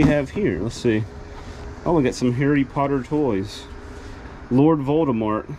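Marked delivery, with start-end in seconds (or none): none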